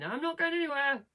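high-pitched, petulant mock protest; mock defiant refusal. Character staying behind while his friend leaves, mock defiant refusal.

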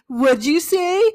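slow, high and loud disbelief; incredulous brother. Retold or imitated. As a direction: drag it out like a stunned big brother. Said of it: "my brother's like".

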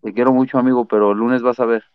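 slurring a little, tipsy. Real, not acted. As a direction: talk like you've had a few. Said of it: "Cabrón, andas pedo".

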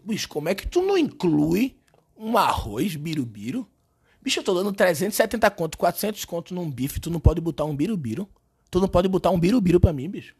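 loud, fast exasperated complaint; indignant rant. Acted. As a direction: rant about being ripped off. Ranting about no side dish. (reclamando indignado)

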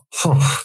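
short puffed-out sigh; real sigh, working out a number; thinking sigh. Real, not acted. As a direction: blow out a breath while reckoning. Reckons up years of smoking.

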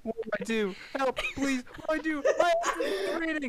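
rising, frantic mock panic; panicked reading. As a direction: read it like a frantic plea. Reads TJ's panicked text aloud.

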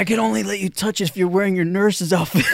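laughing joke. Acted. Co-host jokes in boy's role, laughing.

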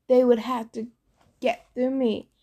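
plain reading voice

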